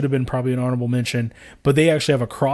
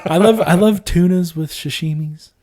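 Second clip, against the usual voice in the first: put-on thick backwoods Appalachian accent; 4 semitones higher, 3 dB louder than usual. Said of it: "whenever I do my hillbilly voice".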